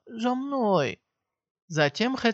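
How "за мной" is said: command. A narrator's reading. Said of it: "скомандовала".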